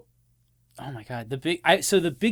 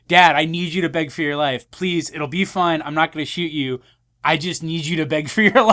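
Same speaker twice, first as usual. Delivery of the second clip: mock pleading; 4 dB louder than usual. Retold son pleading with cop dad.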